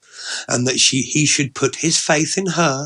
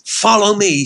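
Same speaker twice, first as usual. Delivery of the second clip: high, louder woman's character voice; Ellie Mae, inviting; 9 semitones higher, 6 dB louder than usual. Acted. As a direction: call him along playfully. Woman playfully leads him off.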